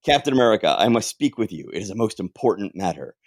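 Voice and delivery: put-on formal German-accented address; second attempt at a German accent. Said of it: "have to do a German accent".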